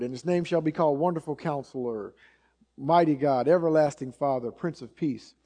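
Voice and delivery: cursory recital, barely pausing between names; skipping right through. Shown as a demonstration. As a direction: run the titles together in passing. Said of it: "sort of just skip right through it".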